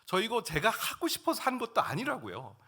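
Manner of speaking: rising protest to God. Retold or imitated. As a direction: argue with God, frustrated and hurt. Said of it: "막 따졌어요".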